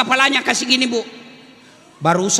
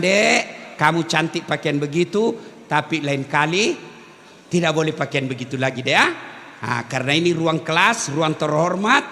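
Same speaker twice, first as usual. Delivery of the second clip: gentle correction; 7 semitones lower than usual. Retold or imitated. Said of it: "Maka saya bilang".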